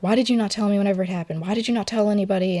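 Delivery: mildly exasperated retold questioning; retold furious mother. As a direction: quote an upset mom, rushing the questions. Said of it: "she was just so furious about it".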